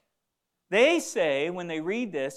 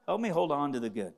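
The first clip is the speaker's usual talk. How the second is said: a prayer led for the congregation; spoken prayer; 3 dB louder than usual. Shown as a demonstration. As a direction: pray it, easing down on the repeat. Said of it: "Say, make it a prayer".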